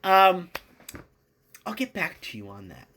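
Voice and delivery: mock noncommittal mumble; evasive dodge. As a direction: stall like a nervous politician. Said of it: "the Republicans are like".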